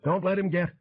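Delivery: high cut-off holler; yell, then break off. A narrator's reading. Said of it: "he hollered".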